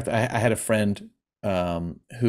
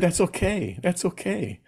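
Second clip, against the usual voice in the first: higher-pitched, tender retold comfort; gentle reassurance; 8 semitones higher than usual. Retelling comfort to a friend near tears, gently reassuring.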